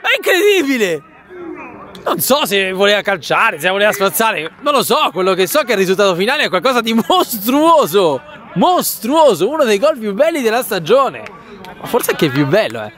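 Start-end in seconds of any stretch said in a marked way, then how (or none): 0.0-11.2 very high, stretched, shouted goal call; breathless italian goal commentary. Real, not acted. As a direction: scream a wonder goal in disbelief.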